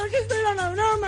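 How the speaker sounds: fast, high-pitched outburst; outraged protest. Real, not acted. Girlfriend revealing the prank to boyfriend, outraged. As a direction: throw the truth at him angrily.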